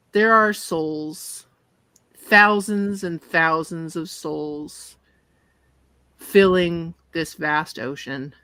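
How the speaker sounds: slow, weighty scene setting; game master's narration. Acted. Game master reveals souls in the ocean, slow narration. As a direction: let the horror unfold slowly.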